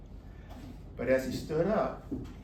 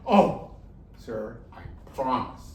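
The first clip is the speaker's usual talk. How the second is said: pleading promise; 6 dB louder than usual. Acted. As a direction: swear it with wide sad eyes. Tiger promises not to eat.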